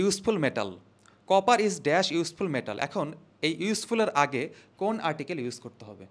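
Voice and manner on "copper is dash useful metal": copper is dash read very slowly and loud; teacher reading the blank question slowly. Shown as a demonstration. Teacher reads exam sentence to students, slow and loud. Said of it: "reads the question out".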